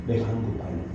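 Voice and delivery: the self-realization of someone whose pride has just broken; quiet despair. Acted. The preacher voicing a broken self, quiet and hushed. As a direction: drop to a soft, hushed confession.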